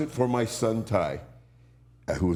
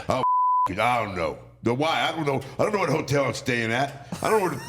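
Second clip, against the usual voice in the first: mock drunk confusion; 4 semitones higher, faster than usual. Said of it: "I'm being like that now".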